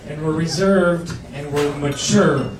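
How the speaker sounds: pretending to be grown-up; mock solemn. Mock solemn slow words.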